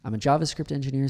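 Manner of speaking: I'M run together as one syllable; contracted I'm. Shown as a demonstration. Coach models natural speech, contracting to I'M. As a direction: link I'M smoothly into a JavaScript engineer. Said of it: "we might contract I and am".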